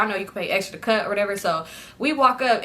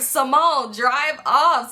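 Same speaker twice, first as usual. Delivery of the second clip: higher, laughing through the urging; 4 semitones higher, much slower than usual. Retold or imitated. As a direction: crack up while repeating the order.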